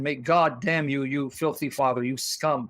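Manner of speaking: slow, low-pitched cursing; bitter curse. Real, not acted. Host cursing the girl's father, slow and bitter. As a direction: drag out each insult with contempt.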